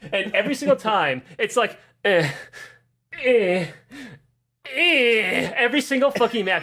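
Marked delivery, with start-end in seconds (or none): 2.0-5.5 mock moaning. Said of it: "he's just moaning about how".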